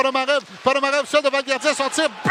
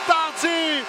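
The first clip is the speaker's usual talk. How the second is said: excited sports commentary; 4 semitones higher, much slower than usual. Real, not acted. Play-by-play goal call.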